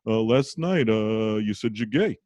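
halting, lightly voiced Brooklyn father; Brooklyn detective dad. Brooklyn dad revisits son's coming out next morning, halting. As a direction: Brooklyn dad easing awkwardly into it, drawn-out ums. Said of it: "he talks like a detective from Brooklyn".

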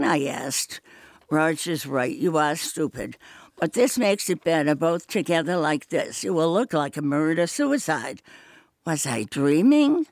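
even, measured reading of a thriller; story narration. A narrator's reading. Reading part two of the story aloud to listeners. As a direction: read it like a suspense novel, steady.

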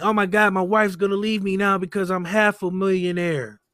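mock crying rich man. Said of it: "they were really crying like".

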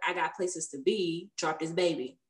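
imitating a businesslike, unsentimental nurse; matter-of-fact nurse. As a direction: deliver the retold orders matter-of-factly. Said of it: "Just very matter of fact".

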